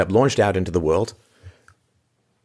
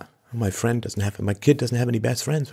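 mock fretting mom; 5 semitones higher, 4 dB quieter than usual. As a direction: mimic a fretful mom, hushed. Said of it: "it's the moms who care more".

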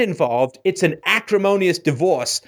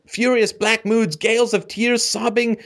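mocking repetition; 6 semitones higher than usual. Repeats the description mockingly.

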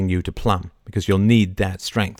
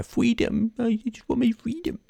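much higher, strained mock battle cry; William Wallace freedom cry; 13 semitones higher, 4 dB quieter than usual. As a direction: ham up a botched Braveheart freedom speech. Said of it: "Worst Wallace ever".

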